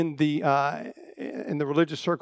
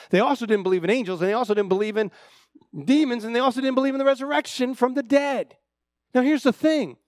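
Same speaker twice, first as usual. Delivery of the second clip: building emphasis; 7 semitones higher, 3 dB louder than usual. Real, not acted. Preaching builds on Sadducee beliefs.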